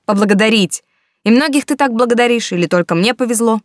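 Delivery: bitter sarcasm. A narrator's reading.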